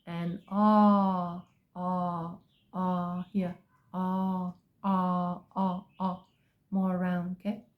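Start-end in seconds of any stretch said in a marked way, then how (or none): 0.5-6.3 repeated open "ah", mouth rounded; drilled ah vowel. Shown as a demonstration. Teacher drilling the open vowel, repeated ah. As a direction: keep opening on "ah". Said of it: "open more around your mouth".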